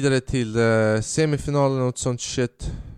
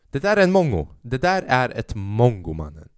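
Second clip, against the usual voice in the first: exasperated outburst; 4 dB louder than usual. Real, not acted. Comedian venting about the man in the queue, loud exasperated. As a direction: blurt the insult out.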